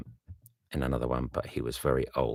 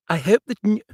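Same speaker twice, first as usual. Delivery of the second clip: bright friend voice, raised; calling cheerfully, higher; eager Bingley, higher, louder; 10 dB louder, faster than usual. Acted. Bingley wishes Darcy well, higher and louder.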